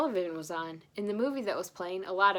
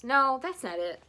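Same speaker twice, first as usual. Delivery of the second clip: flustered; 6 semitones higher, 6 dB louder than usual. Acted. Character fumbling presents.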